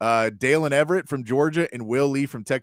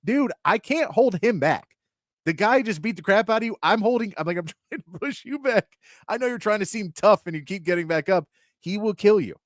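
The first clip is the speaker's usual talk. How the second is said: much higher, hammed-up frantic friend; frantic buddy; 9 semitones higher than usual. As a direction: play the panicked buddy holding him back. Voicing the golfer's buddy.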